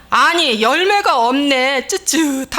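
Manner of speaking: loud, drawn-out grumbling protest; hammed-up tutting objection; mock complaint. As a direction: tut and stretch the endings. Acting out mild alternative reaction.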